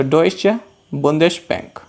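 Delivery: डॉयचे बुंदेश बैंक word by word, pausing after डॉयचे; pronunciation demo. Shown as a demonstration. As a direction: say डॉयचे as "DOY-che", then बुंदेश बैंक. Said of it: "इसका pronunciation होता है".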